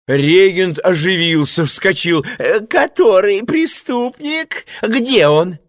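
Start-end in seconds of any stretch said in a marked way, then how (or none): 2.4-5.6 высокий дребезжащий голос регента; угодливо и суетливо, повыше; shifty choirmaster voice. Acted. (регент притворно оживляется)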